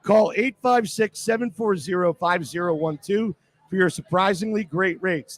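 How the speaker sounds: live radio commercial; radio ad read. Acted. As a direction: clear ad read, phone number spelt out. Host reads the sponsor ad.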